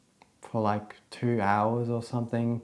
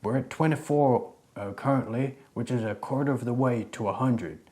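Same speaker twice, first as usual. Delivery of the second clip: cowboy voice; 3 semitones higher than usual. Shown as a demonstration. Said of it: "do the outro and the cowboy voice".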